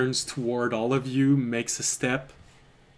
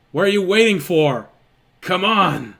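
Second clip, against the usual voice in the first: impatient rogue; 5 semitones higher, 7 dB louder than usual. Acted. GM voices rogue urging construct.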